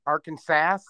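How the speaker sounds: "Arkansas" ending in a flat "sass", as a question; alternate pronunciation. Shown as a demonstration. Friend tries out another way to say the state, ending in "sass". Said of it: "must pronounce Arkansas's correctly".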